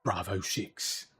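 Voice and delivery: slow put-on announcer in spoof soldier style; parody military voice. Streamer re-enacting the live draw, slow parody announcement. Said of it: "put some strain on my voice".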